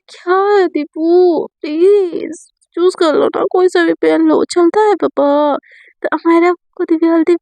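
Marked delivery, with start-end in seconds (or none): 0.1-5.6 weary pleading. Retold or imitated. Acted weary plea to stop choosing.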